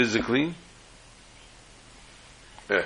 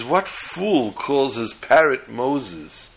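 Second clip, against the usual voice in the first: incredulous thief; 2 semitones higher, much slower than usual. Acted. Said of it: "And the man says".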